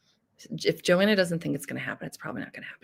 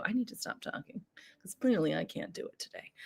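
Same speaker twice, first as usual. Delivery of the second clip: sudden hushed whisper, quicker at the end; 11 dB quieter than usual. Real, not acted. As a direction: drop to a whisper as if scolding yourself. Talking too much, goes hushed.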